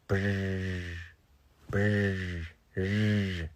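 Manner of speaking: "Brr" with a clumsy attempted trill; failed R roll. Shown as a demonstration. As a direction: try and fail to trill "Brr". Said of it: "I never could roll my R's".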